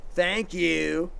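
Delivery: offhand thank you. Shown as a demonstration. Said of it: "That doesn't mean anything".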